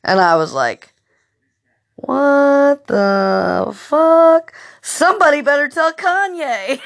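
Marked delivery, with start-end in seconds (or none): 2.0-6.8 high, slow, stunned yelp breaking into a laugh; half-laughing, half-shouting in alarm; mock panic at the sky lighting up.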